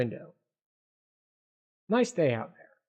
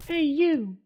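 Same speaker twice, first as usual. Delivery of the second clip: high, loud hail; calling out; 12 semitones higher, 4 dB louder than usual. Acted. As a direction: shout to get someone's attention. Character calls out to someone.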